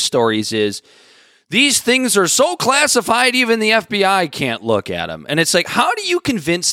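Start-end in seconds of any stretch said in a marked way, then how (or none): 1.5-5.3 high, drawn-out opening, mildly hammed up; mock awe. Mimicking news stories about the files, mock awe. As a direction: parrot the claim with exaggerated importance.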